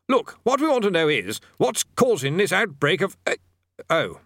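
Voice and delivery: high, nervous bursar; flustered. A narrator's reading. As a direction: fluster and falter.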